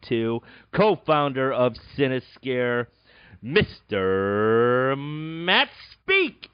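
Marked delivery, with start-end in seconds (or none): 3.4-6.5 game show host. Acted.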